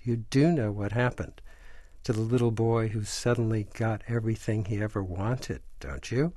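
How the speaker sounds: Willy Wonka cautiously warning Charlie, hushed. Retold or imitated. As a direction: lean in and warn him gently. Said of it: "in a very cautious voice".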